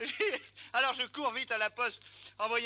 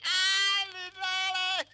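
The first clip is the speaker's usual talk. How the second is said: laughing; 8 semitones higher, 5 dB louder, much slower than usual. Real, not acted. Opening the telegram, laughing.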